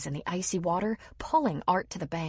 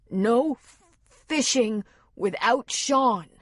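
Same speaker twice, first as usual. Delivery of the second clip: a touch of scolding, slow; mildly scolding; 5 semitones higher, 6 dB louder, slower than usual. A narrator's reading. Art mildly scolding little Rosie about fishing without Sean. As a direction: gently tell her off. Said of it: "in a bit of a scolding tone".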